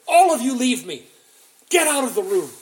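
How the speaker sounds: loud, high command to clear the room; shouting. Retold or imitated. Joseph ordering his court out, breaking down, shouting. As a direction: bark the servants out of the room. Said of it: "because he shouts".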